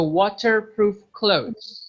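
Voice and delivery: slow British waterproof clothes with a crisp T; British waterproof, T fully pronounced; British accent. Shown as a demonstration. Teacher demos the British accent to students. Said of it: "you could just say with T".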